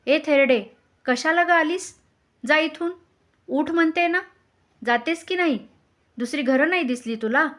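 high, loud scolding queen; angry shouting. A narrator's reading. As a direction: yell to drive an unwanted visitor away. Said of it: "राणी ओरडली".

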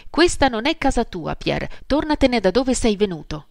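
angry shout. Acted. Marie ordering Pierre out of her house, an angry shout. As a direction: throw him out of the house with your voice. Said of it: "gridò Marie una mattina esasperata".

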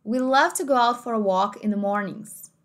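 slow American English with strong r; American accent. Shown as a demonstration. Teacher contrasting accents for students, American take. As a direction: say it American, r rolled in mornings.

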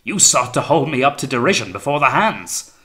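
loud, high, ranting accusation. A narrator's reading. Captain raging at Wellard over a supposed plot, high-pitched. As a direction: hurl the charge, pitched high. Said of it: "His tone was now higher-pitched".

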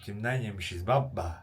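a hint of a streetwise older guy; Mustafa abi impression. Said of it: "Böyle anlatıyor".

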